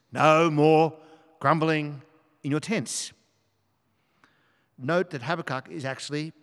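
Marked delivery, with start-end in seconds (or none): 0.1-3.1 loud, punched-out command, easing at the end; emphatic exhortation. Real, not acted. Preacher exhorts friends to stop grumbling, loud and emphatic. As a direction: drive home each phrase with firm pauses.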